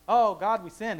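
dramatic guilty plea; wrong repentance. Shown as a demonstration. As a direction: play up the guilty cry. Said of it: "the repenting isn't".

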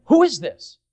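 loud, high excited question; crowd asking. Retold or imitated. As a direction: call it out like an eager crowd. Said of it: "the people were saying".

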